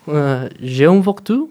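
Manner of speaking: slow "voiture" with a rising end; demoing French intonation, "voiture" rising; rising question. Shown as a demonstration. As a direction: ask "j'ai un voiture" with a rising tune. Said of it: "es más como".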